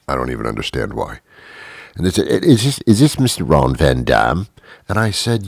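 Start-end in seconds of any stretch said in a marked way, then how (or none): 2.3-4.5 put-on light British accent, hesitant; polite British caller checking a name. British caller asks for Mister Ron Van Dam, British accent. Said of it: "had a British accent".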